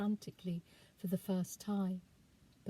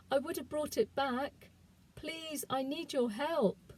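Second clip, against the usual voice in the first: put-on desperate girl's plea, voice catching; thick with panic; 5 semitones higher than usual. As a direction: beg him, frightened for your friend. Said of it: "my voice thick with panic".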